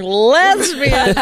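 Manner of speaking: mock heckler yell. Guy yelling during the comic's special, mock holler. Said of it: "a guy yelling".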